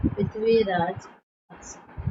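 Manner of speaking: पृथ्वीराज रासो said slowly, each syllable drawn out; slow dictation. Shown as a demonstration. Teacher repeating the book name to students, slowly. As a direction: stretch पृथ्वीराज रासो for the notebook.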